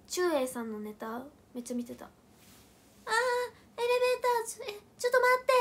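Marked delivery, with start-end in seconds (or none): 2.1-5.5 high, loud, fast flustered panic; hammed-up sketch panic, rushed; panicked comedy bit. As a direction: yelp like the elevator is crashing. Acting out comedian's elevator bit.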